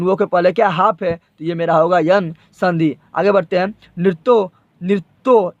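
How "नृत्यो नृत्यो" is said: नृत्यो ending in a clear ओ; final o sound. Shown as a demonstration. Teacher showing students how नृत्यो ends in ओ. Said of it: "ये ओ का उच्चारण होता है".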